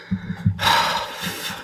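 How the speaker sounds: long breathy sigh; imitated sigh. Recapper acting out confused Roddy, resigned sigh. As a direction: let out a mock resigned exhale.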